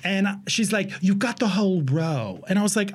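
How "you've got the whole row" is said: lightly put-on New Zealand accent. Ticket agent telling traveler about the seats, New Zealand accent. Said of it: "she's there again".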